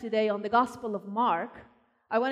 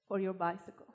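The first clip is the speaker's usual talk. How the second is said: soft, moved reading; 6 semitones lower, 11 dB quieter than usual. Retold or imitated. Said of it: "a little note that said".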